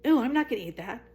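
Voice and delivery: mock disgust. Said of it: "I'm like".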